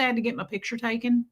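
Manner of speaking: quick echo of a Southern twang slip; Southern-accented self-mimicry. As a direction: repeat it with a slight Southern accent. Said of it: "did I just say that with a Southern accent".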